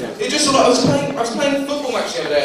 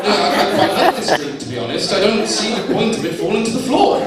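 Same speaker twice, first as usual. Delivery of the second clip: put-on posh accent; faster than usual. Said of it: "naive with my posh accent".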